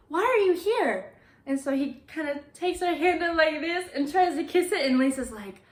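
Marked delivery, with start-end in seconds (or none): 0.1-1.1 high-pitched, louder astonished question; retold excited amazement. Lisa to the grave's owner, excitedly amazed. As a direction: ask it way up high, thrilled and baffled. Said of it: "She gets really excited".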